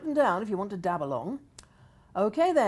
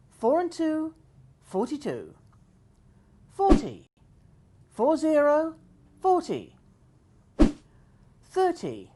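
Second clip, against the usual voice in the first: slow sing-song number calling; bingo caller; 4 semitones higher, 4 dB louder, slower than usual. Acted. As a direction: call each number, then repeat it.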